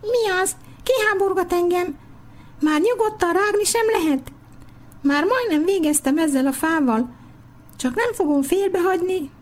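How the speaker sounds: high, squeaky grumbling worm voice; a disturbed little worm protesting from under the root; indignant worm. Acted. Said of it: "méltatlankodás hallatszott a gyökér alól".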